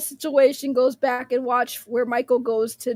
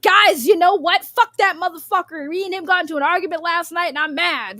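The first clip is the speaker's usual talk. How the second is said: mock ranting streamer; 3 semitones higher, 3 dB louder than usual. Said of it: "and be like".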